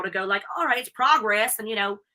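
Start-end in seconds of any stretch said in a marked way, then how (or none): 0.6-1.6 lightly mocked perky American girl; a hint of bubbly American self-parody. Wrestler imagining how British fans hear her, lightly mocked bubbly American. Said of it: "bubbly, annoying American girl".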